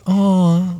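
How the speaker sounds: high, drawn-out delighted oh; imitating excitement. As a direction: mimic someone thrilled by a compliment. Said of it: "she gets very excited".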